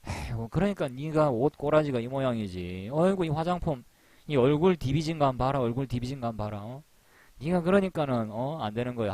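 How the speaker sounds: mock teasing scorn. Friend mocks other's looks.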